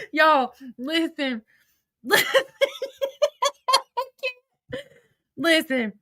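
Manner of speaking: slow, half sobbing with laughter; laughing to tears. Real, not acted. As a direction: fight through the laugh to speak. Trying to talk through laughter.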